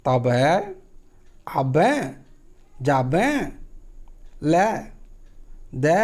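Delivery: तब, आबे, जाबे, ले, दे with stretched final vowels; rubbed, lengthened Angika endings; drawn-out Angika vowels. Shown as a demonstration. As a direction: pull each word's vowel out. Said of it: "ऐसे करके टान के आपको बोलना".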